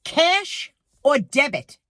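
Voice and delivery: slow, high, bored "Cash or debit"; imitating a rude bored cashier; rude cashier flat. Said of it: "Not this one".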